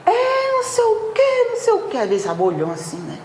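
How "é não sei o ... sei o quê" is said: high mocking imitation of someone ranting; mock shouting person. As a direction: squeal it out like a person losing their temper. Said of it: "Se uma pessoa vem e grita, esbraveja". (imitação aguda e debochada de alguém gritando)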